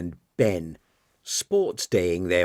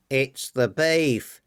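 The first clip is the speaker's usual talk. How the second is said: shrill man; 4 semitones higher, slower than usual. Acted. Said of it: "said a shrill Larry".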